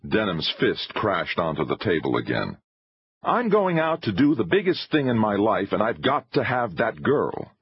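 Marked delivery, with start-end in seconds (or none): 3.2-7.5 high-pitched, determined insistence; heated filmmaker, set on his goal; impassioned showman. A narrator's reading. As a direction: insist with rising urgency.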